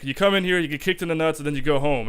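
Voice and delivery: put-on high, lightly done French accent; mock French accent. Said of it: "in a really funny-ass fucking French accent".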